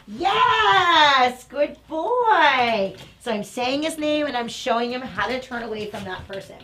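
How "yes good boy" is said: loud, high praise; excited praise. Real, not acted. Trainer praising her dog for turning back. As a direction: throw a little party with your voice.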